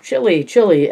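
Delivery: high, loud delighted chant; excited scream. A narrator's reading. Ellie excited about the chili, screaming with delight. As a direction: squeal it with glee right into his ear. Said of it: "Ellie screamed in Lewis's ear".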